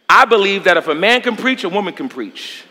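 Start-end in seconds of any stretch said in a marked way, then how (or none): 1.6-2.6 quiet. Real, not acted. Preacher's parallel contrast.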